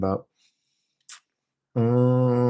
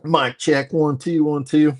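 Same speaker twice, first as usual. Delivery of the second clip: announcer-style mic check, higher and louder; mock mic check; 7 semitones higher, 5 dB louder than usual. Playfully checking the mic for the stream, higher and louder. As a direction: test the mic like a roadie.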